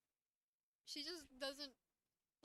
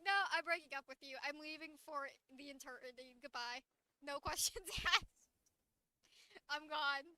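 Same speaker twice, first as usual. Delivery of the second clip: loud, fast, hammed-up breakup line; mock breakup; 7 dB louder than usual. Streamer voicing the girl dumping her boyfriend, mock loud and fast. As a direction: blurt it out and storm off in jest.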